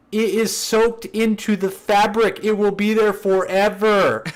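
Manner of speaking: high, slow mock-tragic pronouncement; dramatic coworker. Coworker warning the prankster, high and mock-tragic. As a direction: announce doom in a high wail. Coworker declares the smell permanent.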